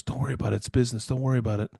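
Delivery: softly imitated reassurance; understanding. Retelling a friend letting the speaker off for business, understanding. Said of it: "she was so understanding".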